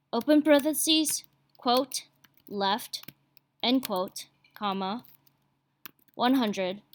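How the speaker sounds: slow, spaced-out code dictation; dictating. Shown as a demonstration. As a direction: read each symbol out deliberately. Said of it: "by typing in".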